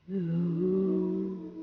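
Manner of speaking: soft low cow moo. Shown as a demonstration. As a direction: moo like a lazy cow for the kids. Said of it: "You could even moo".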